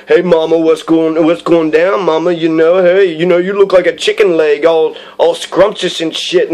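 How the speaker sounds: imitated street thug sweet-talking a woman; loose, cocky mock pickup voice. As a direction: play the thug hitting on her. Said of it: "like a thug with the fucking do-rag".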